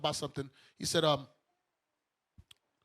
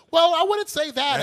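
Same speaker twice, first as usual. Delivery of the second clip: high, slow mock-polite objection; imitating a flustered objector; mimicked protest; 10 semitones higher, 7 dB louder, slower than usual. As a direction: draw it out in a high, loud put-on voice. Mimics flustered person on the train.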